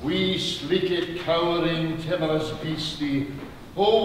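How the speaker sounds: a poet reading to a rapt room; recited Scots verse. Acted. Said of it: "I'm sure you'll understand every word".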